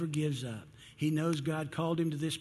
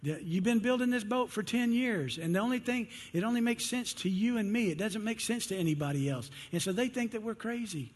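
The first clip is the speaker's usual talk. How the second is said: exasperated wife; 7 semitones higher than usual. Acted. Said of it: "she's like".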